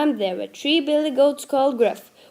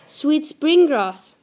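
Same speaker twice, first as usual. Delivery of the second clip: higher, louder little goat; 5 semitones higher, 6 dB louder than usual. A narrator's reading. Smallest goat explains himself to the troll in a little, higher voice. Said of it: "squeezed the smallest goat in his little voice".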